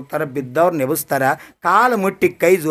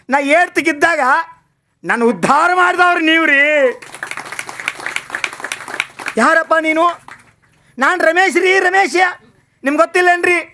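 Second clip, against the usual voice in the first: high, tearful retelling voice; tearful plea; 10 semitones higher than usual. A narrator's reading. The officer begs his old teacher to recognise him, tearful. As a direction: plead through tears to an old teacher. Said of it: "ಕಣ್ಣಾಗಿ ನೀರು ಬರಾಕತ್ತವು".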